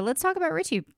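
ordinary delivery

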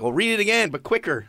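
retold urging. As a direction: mimic someone prodding readers along. Retold Tony urging the readers.

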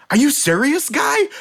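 put-on high, punchy Boston accent; a mock-outraged Boston local in thick Boston. Speaker showing how their accent emerges, in thick Boston. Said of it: "an accent stronger than I've ever had".

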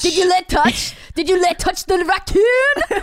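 laughing shout. Acted. Repeated joke, shouted, laughing.

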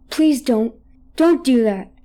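a half-asleep man pleading with a phantom; funny pleading voice. Retold or imitated. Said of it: "he would say things in a funny voice".

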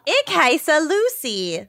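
slow high schoolbook German; careful classroom German; German accent. Pretend. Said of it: "how to say "my name is" in German".

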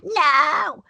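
imitated defiant no. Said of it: "starts screaming at the top of her lungs".

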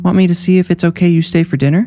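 put-on high little-girl question; a child's offer, pitched well up; young girl. A narrator's reading. Neve inviting Bee to stay, high girlish voice.

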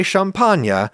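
champagne with open AH and nyuh ending; French pronunciation. Shown as a demonstration. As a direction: say champagne Frenchly, sham-PAHN-yuh. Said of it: "that's the way people in Champagne actually say it".

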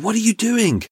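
imitating a startled shout into the dark; retold scream. Boater re-enacts yelling at the man by her boat, a high mock yell. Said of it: "I screamed at him".

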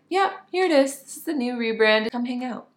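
high breezy nonchalance; casual shrug. Retold or imitated. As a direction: toss it off like no big deal. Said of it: "I was just like".

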